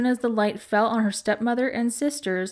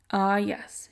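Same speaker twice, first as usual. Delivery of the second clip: more calmly. Acted. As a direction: let the anger drain away. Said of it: "she said more calmly".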